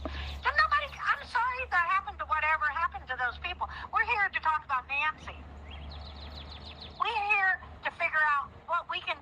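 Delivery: high, worked-up and incredulous; indignant outburst. Real, not acted. Outraged rant about the sheriff.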